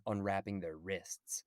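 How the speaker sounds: hushed, slowed whisper of a grim line. Retold or imitated. Quoting Phoebe Cates' grim Christmas line, slow whisper. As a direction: drop to a slow whisper for the dark part.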